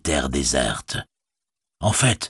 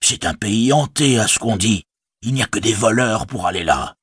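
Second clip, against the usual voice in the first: higher fussy innkeeper voice; a worried village innkeeper speaking up; innkeeper Butterbur; 3 semitones higher than usual. Acted. Innkeeper Butterbur to Gandalf, higher and fussy.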